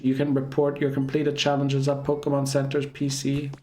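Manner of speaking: lightly robotic announcer voice; eighties computer voice. Pretend. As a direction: read it like an old computer. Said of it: "I'm doing the computer voice from the eighties".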